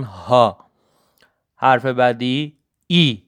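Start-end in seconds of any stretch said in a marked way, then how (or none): 0.0-0.6 ها alone, long open vowel, lower; German letter H. Shown as a demonstration. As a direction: model ها carefully as German H. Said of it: "خیلی دقت کنن".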